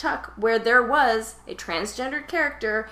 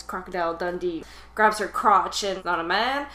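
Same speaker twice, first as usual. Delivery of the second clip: put-on Australian accent. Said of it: "That's my Australian accent".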